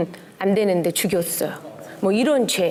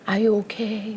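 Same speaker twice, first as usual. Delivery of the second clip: calm husband imitation; much slower than usual. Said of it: "우리 남편은 굉장히 조용하고 침착해요".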